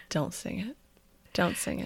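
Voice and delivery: soft, low self-warning; inner voice. Retold or imitated. Host recalls warning herself not to sing, inner voice. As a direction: murmur it like a private thought. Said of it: "I thought".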